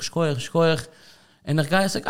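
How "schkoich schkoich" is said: his own Schkoich, schkoich tossed off with a rise at the end; quoted exclamation. Retold or imitated. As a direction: say schkoich, schkoich lifting at the close.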